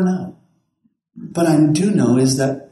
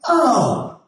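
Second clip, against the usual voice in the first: laughing recognition; 8 semitones higher than usual. Retold or imitated. Joe tells driver about pastor.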